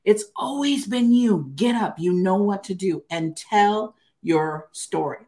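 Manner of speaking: slow, deliberate urging; inner divine voice. Retold or imitated. Voice in her head telling her to get up, slow urging. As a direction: insist gently but firmly, stretching the key phrases. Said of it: "I heard this voice in my head".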